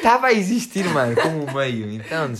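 high laughing burst. Real, not acted. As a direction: laugh through the words.

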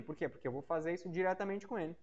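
normal talking voice

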